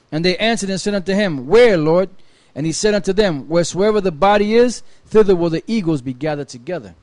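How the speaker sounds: measured Bible reading voice; steady reading of old scripture. Acted. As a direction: read the verses like a lector. Reads scripture aloud.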